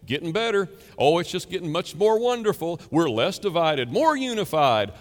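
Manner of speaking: mock optimism. Mocking the optimists.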